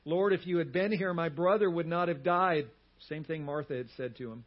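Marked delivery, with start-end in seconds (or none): 0.0-2.7 loud, mildly anguished outcry, retold; anguished cry. Mary at Jesus' feet, crying out in mild anguish. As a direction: cry it out in grief, as if quoting. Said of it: "crying out to him in anguish".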